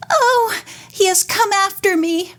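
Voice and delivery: high, fearful wailing voice; frightened wail. A narrator's reading. Sadie terrified of her stepfather, high fearful wail. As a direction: wail it as if he has come for you. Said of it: "Sadie wailed".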